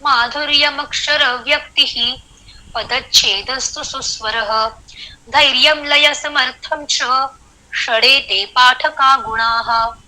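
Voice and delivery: measured verse recitation, pausing after व्यक्तिः, सुस्वरः and च; shloka recitation with pauses. Shown as a demonstration. Teacher showing students where to pause in a shloka, measured recitation breaking after व्यक्तिः, सुस्वरः and च. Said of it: "ये श्लोक आपको पढ़ के दिखाती हूँ".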